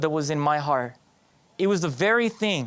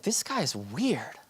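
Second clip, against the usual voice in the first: low, slow, hushed thought to himself; muttered aside; 4 semitones lower, 8 dB quieter, much slower than usual. Acted. Student privately judging his changed classmate, muttered aside. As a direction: mutter it under your breath, slowly.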